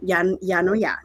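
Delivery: put-on Minnesota accent. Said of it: "that Minnesota accent".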